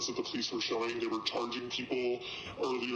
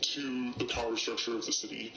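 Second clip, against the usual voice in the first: distorted, pitched-down anonymous voice; disguised deep voice. Real, not acted. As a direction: voice disguised for safety. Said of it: "Their voice has been distorted for their safety".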